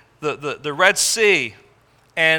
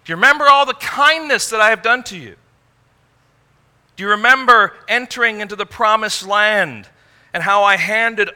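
loud, high and fast, slowing at the end; God reminding his people, loud and fast; God's forceful reminder; 4 semitones higher, 5 dB louder than usual. Acted. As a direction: pour out the list with mounting force. Preacher voices God recounting kindness.

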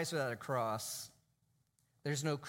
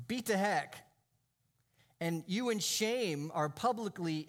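forceful, raised preacher's delivery; emphatic preaching; 5 semitones higher, 3 dB louder than usual. Real, not acted. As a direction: press the horror on the congregation. Preaching the horror of the cross.

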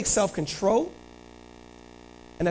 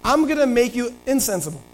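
higher-pitched scheming king; scheming David; 6 semitones higher than usual. Acted. David plotting to get Uriah drunk, lightly sly. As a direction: lay out the plan with sly intent. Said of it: "David's like".

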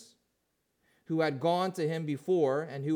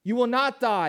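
a touch of the sly serpent, raised; lying serpent; 4 semitones higher, 6 dB louder than usual. Acted. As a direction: tempt them like the lying serpent. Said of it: "lying serpent says".

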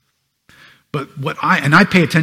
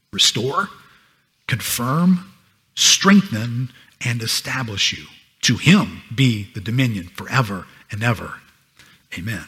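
scripture reading. Acted. Pastor reading First Peter aloud to his church, solemn and measured. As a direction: read the passage aloud to the flock, deliberate and solemn.

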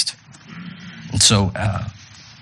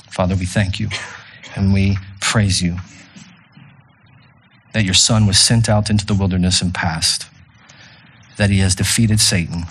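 prayer; 3 semitones lower than usual. Acted. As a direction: pray over the congregation humbly. Closing prayer.

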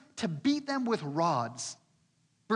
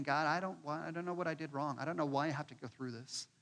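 much softer, hopeless complaint; despairing murmur; 3 semitones lower, 7 dB quieter than usual. Retold or imitated. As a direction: sink into defeat. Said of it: "all they can see is their pain".

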